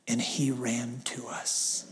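soft, low and drawn out; hushed and slow. Real, not acted. Preacher telling church the Father ran to us, hushed. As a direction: let it sink in softly, slowly. Preacher ending on tender point.

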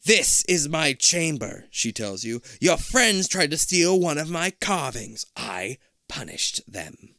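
slow, loud creature voice; menacing monster queen. Acted.

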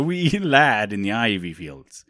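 joking callback in a badly faked Scottish or Irish accent. Host recalls his younger bacon-eating days, bad Scottish-Irish accent. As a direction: break into a laugh mid fake Scottish-Irish lilt. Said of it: "like, a bad Scottish accent or Irish accent".

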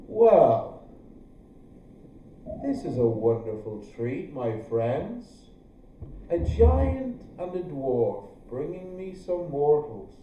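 low rumbling dragon voice; grinding stone gravel voice. Acted. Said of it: "in a rumbling voice you hear".

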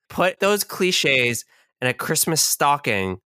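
playful plea to a co-host for cliches; mock-dramatic pleading. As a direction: beg to be pelted, over the top. Mock-begging to be hit with cliches.

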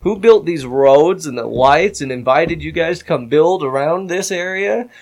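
retold heated challenge, punched words; pissed-off retort. Town's builder confronting his accusers, pissed-off retort. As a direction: challenge them with irritated rhetorical questions. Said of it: "then I'm pissed".

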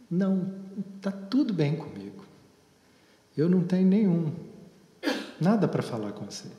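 imitating a casual, gum-chewing teen brush-off; lightly voiced teenager shrugging off the therapist; dismissive teen. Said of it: "mascando um chiclete".

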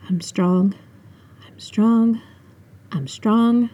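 hushed self-reassurance; steady yourself under your breath; whispered to oneself. A narrator's reading. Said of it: "I whispered to myself".

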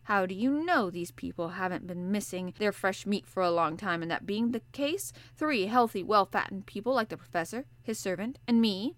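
the harpooner fearing cannibals; hungry harpooner. Acted. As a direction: spell out the grim joke plainly. Ned Land voiced.

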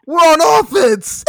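high, loud, slow mock voice; mocking Voodoo. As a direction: whine it like the clueless teammate. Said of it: "And then he goes".

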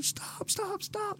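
very high, soft falsetto cries; panicked lady. Retold or imitated. Customer begging the driver to stop, high and thin. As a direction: squeak it out like a frightened woman. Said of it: "And she's like".

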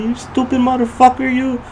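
high, loud mock yell, slowing at the end; high shrieking imitation of a road-rage driver; imitated yelling. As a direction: yell it like the furious driver, stretching let me go. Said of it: "He was yelling at me".

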